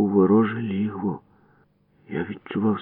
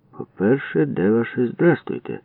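mocking higher lilt; snide smirk; 5 semitones higher than usual. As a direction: needle them with fake manners. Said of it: "з уїдливою посмішкою сказав Будка". (уїдливо з посмішкою)

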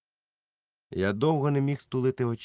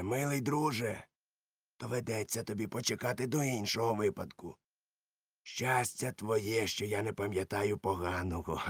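mock-gentle; 6 dB quieter than usual. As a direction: purr it out with false kindness. Silver mocks George sweetly.

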